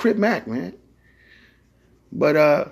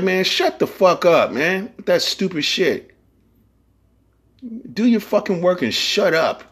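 mock crew yell; 8 semitones higher than usual. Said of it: "we always be like".

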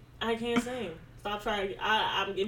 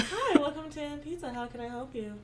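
customer service voice; 6 semitones higher than usual. Retold or imitated. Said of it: "My customer service voice really do be sounding like Janet".

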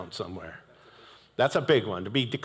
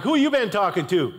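a hint of a stern dad, raised; mock parent; 5 semitones higher, 3 dB louder than usual. Father questioning his kids about their friends, lightly stern. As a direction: question the kid like a suspicious father. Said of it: "I'm like".

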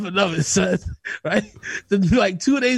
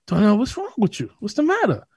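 neighbor's worried question, pitched up; concerned neighbor; 4 semitones higher than usual. Retold or imitated. Neighbor asks high Darnell what's wrong, concerned.

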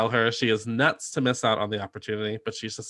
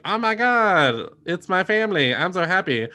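gushing happy; 6 semitones higher, 5 dB louder than usual. Retold or imitated. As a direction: gush it out like a delighted dad. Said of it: "he's all like".

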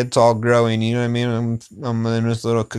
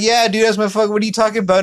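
retold girl's reply; 9 semitones higher, 3 dB louder, faster than usual. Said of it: "and she's like".

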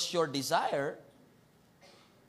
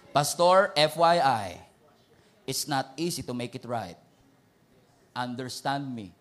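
defiant churchgoer; 6 semitones lower than usual. Retold or imitated. Acting a defiant believer.

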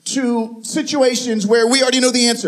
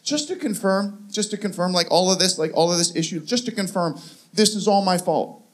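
sarcastic question; 3 semitones lower, 4 dB quieter than usual. Retold or imitated. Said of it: "I don't know why I asked the question".

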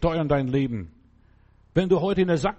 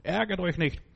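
commanding problems; 3 semitones higher than usual. Shown as a demonstration. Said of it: "sagt deinen Problemen".

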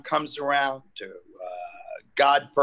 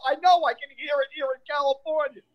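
deadpan joke on the phone; sarcastic; 10 semitones higher, faster than usual. Retold or imitated. Telling the doorman he can hear the fire, high and fast.

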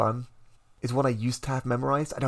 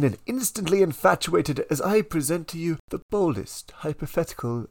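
chipper 1950s ad; 2 semitones higher than usual. Acted. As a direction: sell the dream like a huckster. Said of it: "this is one where I inhabit a character".

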